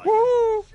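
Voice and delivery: high, held whoop; excited woo. Real, not acted. Gamer on Gold Rush, excited high whoop. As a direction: let out a gleeful "woo".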